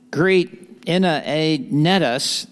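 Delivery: slow Texas drawl on greet Epaenetus; Texas accent. Shown as a demonstration. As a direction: draw out greet Epaenetus like a Texan. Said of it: "that's the best I can do with the Texas accent".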